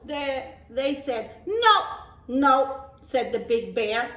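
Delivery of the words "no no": loud emphatic no; firm no. Acted. Animals reject the goat's tiny sneeze, loud no. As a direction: refuse firmly.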